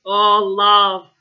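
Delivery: drawn-out, loud, pained "love"; a sorry, sheepish groan; rueful groan. Retold or imitated. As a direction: groan it like a man who regrets everything. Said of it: "The way he said it".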